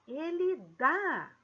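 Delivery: "dá" said slowly and pressed; stress on dá. Shown as a demonstration. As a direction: show the tonic vowel in "dá". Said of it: "Olha só ... vogal, ãh, tônica aqui".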